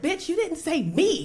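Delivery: retold indignant outburst; mad. Twin left off her sister's list, hurt and mad. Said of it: "Why are you mad?".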